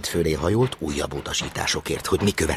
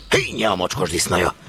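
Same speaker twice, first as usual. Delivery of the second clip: indignant outburst; 3 semitones higher, 4 dB louder than usual. Acted. Chief jumps up at the tale.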